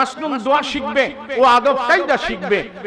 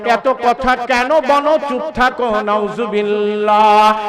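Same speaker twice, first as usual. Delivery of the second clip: annoyed son. Retold or imitated. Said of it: "অনেক যুবক আছে বিরক্ত হয়".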